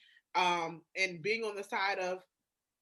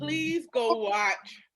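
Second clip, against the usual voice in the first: pleading; 3 semitones higher, 6 dB louder, much slower than usual. Real, not acted. Begging friend to watch movie.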